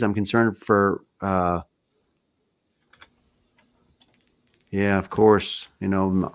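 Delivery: choppy audio with dropouts; audio cutting out. Real, not acted. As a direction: voice breaking up on a bad connection. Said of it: "my audio keeps cutting out".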